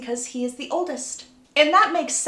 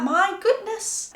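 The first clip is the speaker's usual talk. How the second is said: higher, drawn-out exasperation; exasperated; 9 semitones higher, slower than usual. Retold or imitated. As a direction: huff it slowly on a rising pitch. Acted exasperation in Jacob's retort.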